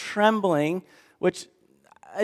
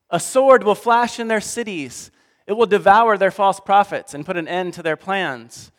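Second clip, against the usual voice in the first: preacher voicing God's wrath; stern scripture reading; 3 semitones higher than usual. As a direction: thunder the judgment like a prophet. Reads God's words in Hosea.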